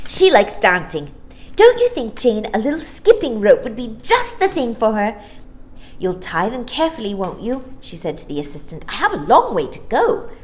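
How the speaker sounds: put-on eager child. Maya choosing toys.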